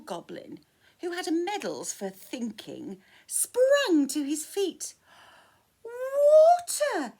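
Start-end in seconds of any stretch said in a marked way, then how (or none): 5.8-7.1 high, loud triumphant shout. Acted. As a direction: blurt the answer proudly. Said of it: "he shouted".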